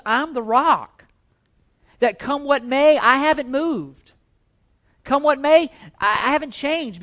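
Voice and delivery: loud, high, ringing voice of God proclaiming. Acted. Preacher voicing God to his congregation, ringing and proclaiming. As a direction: proclaim it as God, strong and unshaken.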